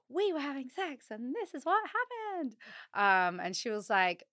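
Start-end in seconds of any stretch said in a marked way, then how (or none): 0.1-2.6 excited. Retold or imitated. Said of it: "texted my midwife all excited".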